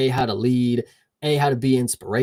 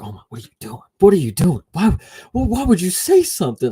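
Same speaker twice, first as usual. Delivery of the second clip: panicked gym mates; 6 semitones higher, 4 dB louder, faster than usual. Retold or imitated. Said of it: "everybody's like".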